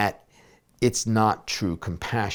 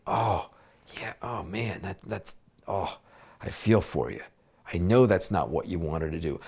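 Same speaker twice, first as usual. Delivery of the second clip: compassionate comfort; 2 semitones lower than usual. Retold or imitated. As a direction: hush down and console her tenderly. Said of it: "I can have compassion saying".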